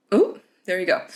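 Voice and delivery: hiccuping mid-sentence; interrupted by a real hiccup. Real, not acted. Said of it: "I literally just got the hiccups".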